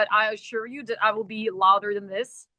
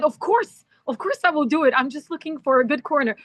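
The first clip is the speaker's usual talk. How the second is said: bright, much higher, eager retold yes; playfully keen, retelling her own reply; eager agreement; 5 semitones higher than usual. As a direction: toss off a quick eager of course.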